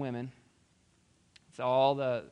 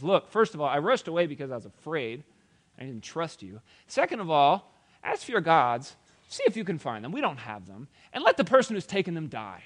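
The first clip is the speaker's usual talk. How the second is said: louder, higher indignant retort; defiant; 3 semitones higher, 7 dB louder than usual. Acted. Jacob answering Laban's accusation, loud and indignant. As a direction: fire back point by point.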